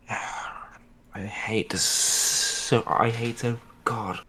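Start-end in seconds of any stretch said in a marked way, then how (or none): 0.1-1.8 whispered sigh. Real, not acted. Player sighs, hushed.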